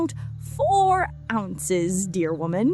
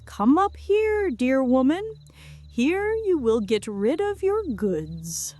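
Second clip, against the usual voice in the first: calling out; 4 semitones higher, 4 dB louder than usual. Acted. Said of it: "and called".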